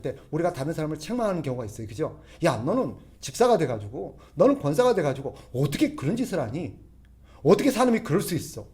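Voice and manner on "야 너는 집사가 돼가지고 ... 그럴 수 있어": mild rebuke. Acted. Preacher acts out rebuking a deacon.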